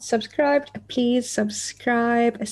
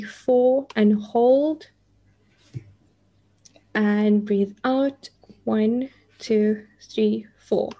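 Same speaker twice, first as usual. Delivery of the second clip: guided breathing, slow and calm; counting breaths like a meditation guide. Shown as a demonstration. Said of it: "Let's take a deep breath in. I'm going to count to four".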